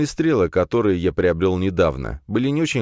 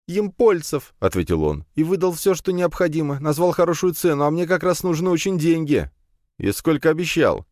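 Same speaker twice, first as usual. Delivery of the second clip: put-on higher scared young man; frightened lad; 11 semitones higher than usual. A narrator's reading. Captive lad confesses to the heroes, scared. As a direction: answer fast and nervous.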